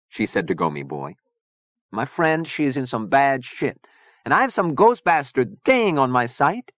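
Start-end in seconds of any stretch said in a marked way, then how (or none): 1.9-6.7 put-on high, accented character voice; fiery Zona, indignant. A narrator's reading. Zona warning Gomi Boy about her friend's trouble, indignant.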